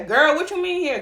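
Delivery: high, incredulous questioning; shocked disbelief. Retold or imitated. Girl hearing her boyfriend is a girl, shocked. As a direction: jump up in pitch, not believing it.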